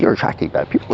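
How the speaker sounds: hushed, breathy aside; whispered quote. Retold or imitated. Telling someone their blood draws bad people, in a whisper. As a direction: whisper it like a secret warning. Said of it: "It's like".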